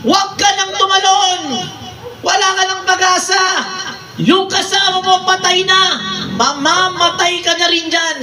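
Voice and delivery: jeering crowd shouting from above; shouting frogs. Acted. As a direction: yell down at the frogs below.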